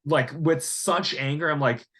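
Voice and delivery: normal talking voice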